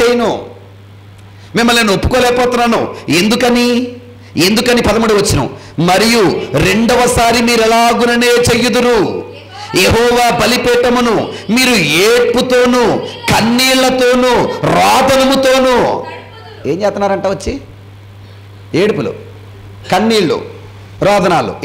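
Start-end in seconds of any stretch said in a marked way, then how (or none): 5.8-16.0 slow, measured reading of the verse; scripture reading. Acted. Pastor reading the verse to the congregation, slow and solemn. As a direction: read it out slowly like holy writ.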